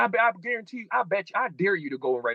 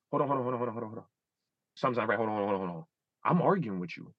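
hushed self-check; 8 semitones lower, 6 dB quieter, much faster than usual. Retold or imitated. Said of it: "And I'll be like".

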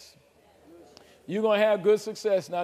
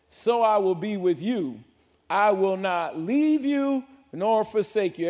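scripture reading; slower than usual. Acted. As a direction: proclaim God's words slowly and firmly. Preacher reading scripture aloud.

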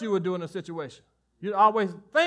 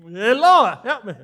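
nervous laugh; 3 semitones higher, 10 dB louder, slower than usual. Real, not acted. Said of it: "I got a little nervous right then".

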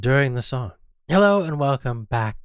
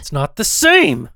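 exasperated outburst; 7 dB louder, slower than usual. Acted. Arguing over music.

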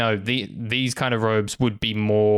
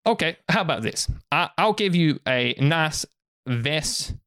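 lightly voiced merchant, coaxing sales pitch; 2 semitones higher than usual. Merchant offering a human fine clothes, lightly voiced pitch. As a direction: coax them like a market trader.

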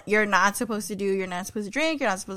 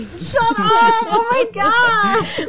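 high squealing disbelief; shocked; 11 semitones higher, 4 dB louder, much slower than usual. Real, not acted. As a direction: shriek it out in shock. Shocked reaction to confession.

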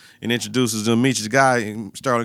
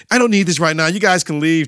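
mock angry; 4 semitones higher, 5 dB louder than usual. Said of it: "he get mad and kick everybody out".

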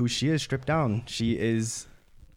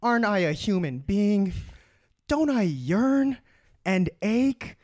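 villain monologue; 3 semitones higher than usual. Acted. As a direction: build the grievance to a grand pleading peak. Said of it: "the villain monologue".

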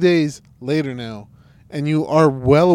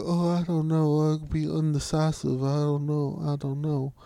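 lightly imitated whining, fading softer; mock whiny; 5 dB quieter than usual. Explaining why the character annoys him, mock whiny imitation. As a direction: whine indecisively, trailing away. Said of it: "'cause he's whiny. He's like".

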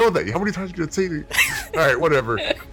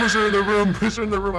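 urgent shout; 12 semitones higher, 4 dB louder than usual. Acted. Urgent order over screaming.

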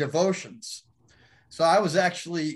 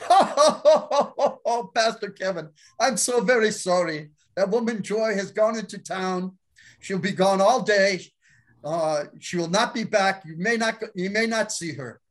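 higher, mock-formal, a laugh breaking through; laughing pastor; 4 semitones higher than usual. Pastor on the phone to Kevin, teasing, stifling a laugh. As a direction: play the pastor barely holding in laughter. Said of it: "And he's laughing, like, almost hysterically".

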